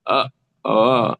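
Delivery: failed "Vav" coming out as "Uh, oh"; open-mouthed "Uh, oh" with no V sound; lips kept open. Shown as a demonstration. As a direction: attempt "Vav" without closing your lips, "Uh, oh". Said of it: "without closing, you know, putting your teeth".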